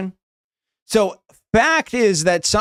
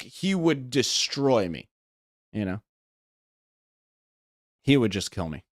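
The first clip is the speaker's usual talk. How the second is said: usual speaking voice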